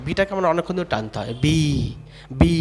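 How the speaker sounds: বি with a long held "ee"; long drawn-out vowel. Shown as a demonstration. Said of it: "বিটাকে একটা long sound".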